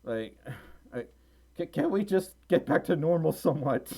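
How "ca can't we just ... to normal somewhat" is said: weary plea. Real, not acted. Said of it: "I'm down in the dumps".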